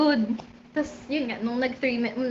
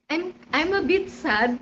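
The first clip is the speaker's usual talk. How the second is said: quoting Kath; 2 semitones higher, slower than usual. Retold or imitated. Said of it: "first words ni Kath".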